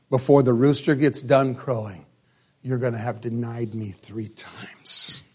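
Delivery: soft, fading into a whisper; hushed warning. Acted. Jesus warns Peter of his denial, trailing to a whisper. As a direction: lean in and breathe the last words.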